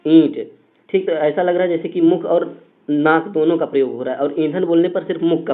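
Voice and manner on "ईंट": ईंट with a humming nasal ईं. Shown as a demonstration. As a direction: let ईंट ring through the nose. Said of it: "हमारे भी नोज से गूंज आ रहा है".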